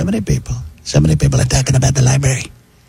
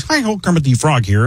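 nasal Kermit voice; Kermit the Frog; 2 semitones higher than usual. Retold or imitated. Comic showing his Muppet voices, nasal Kermit. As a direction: squeeze it through the nose like Kermit. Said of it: "Kermit the Frog is a nasal voice".

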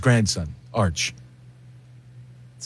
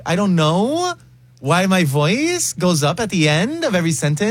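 imitated Gen Z lilt, "know" and "sentence" swooping up; singsong upspeak; 3 semitones higher than usual. Mocking a Gen Z clip for co-hosts, singsong upspeak. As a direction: let the pitch swing up on "know", "voice" and "sentence". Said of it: "This one is that singing at the end".

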